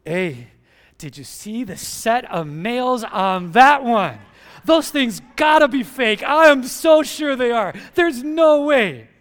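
mock gossipy man, slow then loud; gossiping guy. Pastor mocking men gossiping about nails. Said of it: "another guy go up to another guy and say".

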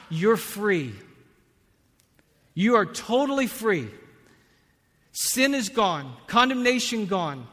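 loud, high, impassioned preaching; full-force preaching. Acted. Preacher proclaiming grace to the congregation, loud and impassioned. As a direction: lift the room with the wonder of grace.

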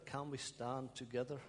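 "together" given the weight of the phrase; stress on TOGETHER. Shown as a demonstration. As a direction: lean gently on the word together. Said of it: "my emphasis is on the word together".

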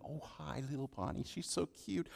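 put-on soft, cooing baby talk. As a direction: coo over the little one.

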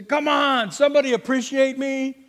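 playfully indignant appeal; mock exasperation. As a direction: act out a fed-up demand for thanks. Acted plea of an unthanked person.

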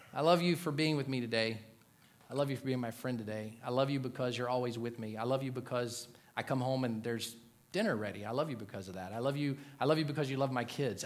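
low, soft list of endearments; gently sincere, as to a wife; hushed, loving reassurance; tender. Shown as a demonstration. Demonstrates specific loving words to wife.

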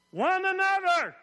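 "One another" shouted high, slow and loud; "One another" in a big rising call; emphatic one another. Shown as a demonstration. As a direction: drag the crowd into "One another". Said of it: "I'm trying to draw an emphasis here".

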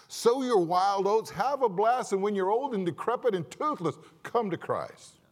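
hammed-up devil egging you on to party; mocking Satan. Satan tempting the young to wait, mocking and loud. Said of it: "That's what he says".

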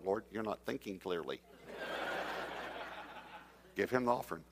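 half-laughing, hushed protest to God. Retold or imitated. Preacher arguing with God, laughing softly. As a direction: chuckle through the objection.

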